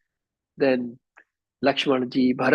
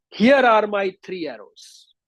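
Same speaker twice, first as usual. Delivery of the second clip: acted angry declaration, raised pitch; angry vow; 7 semitones higher, 4 dB louder than usual. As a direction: declare it in anger, pitched up, falling away. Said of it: "he became very, very angry".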